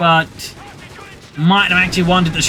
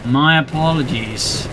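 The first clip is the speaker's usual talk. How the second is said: sincere apology; 5 semitones lower, slower than usual. Real, not acted. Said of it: "I forgot to switch over".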